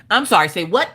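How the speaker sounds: mildly confrontational, rising challenge; gangsta mom. Retold or imitated. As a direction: challenge them like a mom from the streets. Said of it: "went from just pleasant mommy to gangsta".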